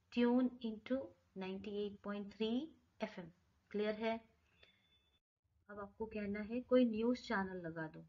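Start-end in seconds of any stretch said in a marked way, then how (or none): 0.1-3.3 drawn-out, number by number; slow each number way down; very slow teacher demo; very slow model phrase. Shown as a demonstration. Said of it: "कैसे कहेंगे आप?".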